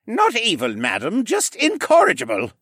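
growl. A narrator's reading. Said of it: "Jenner growled".

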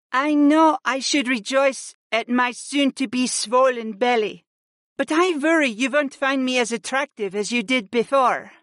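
high-pitched female voice, worried; insecure wife. Acted. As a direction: confess worry in a high voice.

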